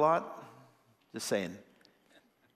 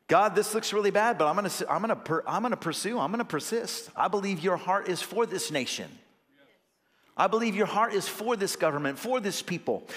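fervent prayer; 4 semitones higher than usual. Retold or imitated. Voicing a bold prayer.

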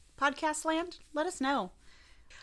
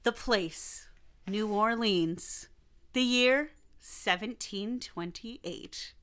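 dramatic narration. Acted. Dramatic story intro.

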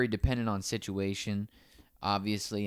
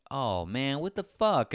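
higher, exasperated mock protest; mock outrage; 5 semitones higher, 3 dB louder, slower than usual. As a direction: protest like someone just let down. Imagined reaction to bad news.

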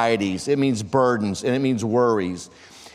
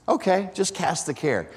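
sceptical echo; 3 semitones higher, 3 dB quieter than usual. Real, not acted. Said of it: "What does that even look like?".

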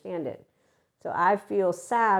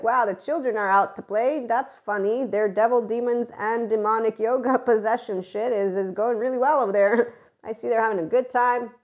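higher, louder, laughing mock pity; amused condescension; 4 semitones higher, 4 dB louder than usual. Mocking the judgers of polyamory, amused and condescending. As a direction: pat the kids on the head with a laugh. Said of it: "because we're like".

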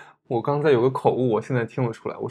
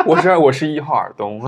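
笑着说; 4 semitones higher, 11 dB louder than usual. Real, not acted. 笑着报出选手编号.

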